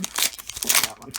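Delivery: breathy low whisper, slow. Real, not acted. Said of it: "Uh, not that one".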